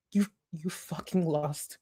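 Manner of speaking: whispered menace, slow; dramatic whisper. Pretend. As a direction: hiss it in a theatrical whisper. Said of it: "the emotion in my fucking voice".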